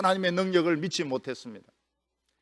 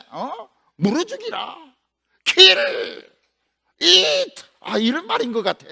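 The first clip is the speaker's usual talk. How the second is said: talking bear; 6 semitones higher than usual. Acted. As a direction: play a simple-minded bear working out the order. The bears talk.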